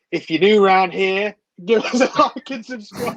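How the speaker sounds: high-pitched, hammed-up cowboy-sheriff voice; recurring mascot character. Asking new viewers to subscribe, as a high-pitched comic mascot. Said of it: "that's a recurring character".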